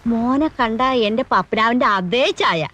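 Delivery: butter him up gently, unhurried; sugary sweet. Acted. Grandmother turns sweet to tenant.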